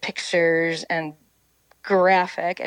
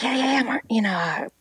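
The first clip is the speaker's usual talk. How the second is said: mock eager hostess; 5 semitones higher, faster than usual. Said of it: "I'm like".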